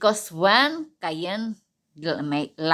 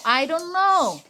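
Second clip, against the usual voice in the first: high, laughing shrug of a denial; mock-innocent laughing reply; laughing Cain denial; 8 semitones higher than usual. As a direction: toss it off with a laugh. Cain's evasive answer, laughing.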